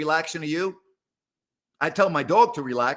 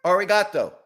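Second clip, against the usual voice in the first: higher, louder sing-song call to a cat; pet-talk call, higher and louder; calling the cat in Japanese; 5 semitones higher, 4 dB louder than usual. Pretend. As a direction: coax the cat with a cheerful arigato. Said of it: "Thank you in Japanese".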